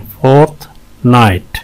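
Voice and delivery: "फोर्टनाइट" with a clear gap between halves; syllable breakdown. Shown as a demonstration. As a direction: pause in the middle of "फोर्टनाइट". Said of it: "दो syllables हैं इसमें". ("फोर्टनाइट" बीच में रुककर)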